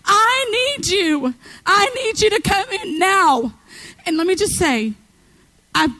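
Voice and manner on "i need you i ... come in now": slow, earnest plea to God; pleading prayer. Pretend. Believer crying out to God for help, slow earnest plea. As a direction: beg him to come in. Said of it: "open up and say".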